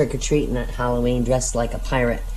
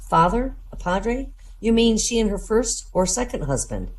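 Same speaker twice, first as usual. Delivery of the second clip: high confused voice; 7 semitones higher than usual. Acted. Sister questioning the padre.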